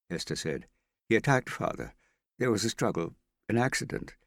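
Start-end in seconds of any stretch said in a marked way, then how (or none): 1.1-4.1 higher, louder and urgent; urgent pleading. Acted. Hester defending her father to Marriott, urgent and louder.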